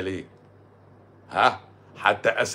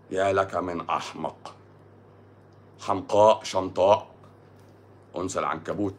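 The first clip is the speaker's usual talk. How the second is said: tag; 5 semitones lower than usual. Pretend. Recites mock classical insults.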